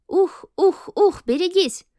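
loud rhythmic yeti grunts; bigfoot grunting. A narrator's reading. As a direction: chant it in time with the running. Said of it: "приговаривали ездовые Йети". (ухающие в такт ездовые йети)

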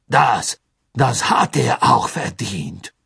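slow, tense voice edged with panic; a trace of panic under bravado; panicky. A narrator's reading. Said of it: "mit einem deutlichen Anflug von Panik in der Stimme".

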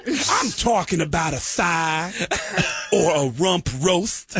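a mock frontman slowing down to explain; a rock singer backpedalling. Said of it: "he stopped and went".

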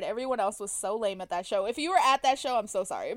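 ordinary talk

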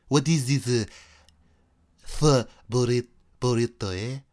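a hint of a French accent drifting Mexican; lightly voiced French turning Mexican-Asian; mixed French accent. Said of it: "I just went from, like, French to, like, a weird, like, Mexican, Asian accent".

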